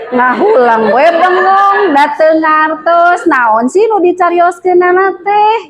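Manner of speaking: slow, puzzled put-on voice of a bewildered listener; confused villager. Teacher voicing a confused grade-school graduate, slow and puzzled. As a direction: drag it out like someone who can't follow. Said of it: "Si orang S D pas gimana, Bu, responnya".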